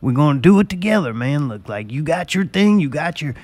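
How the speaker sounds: lightly voiced neck-beard Jack; a hint of a proud redneck brother; mock pep talk to his brother; Jack impression. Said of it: "I was doing a good imitation of him".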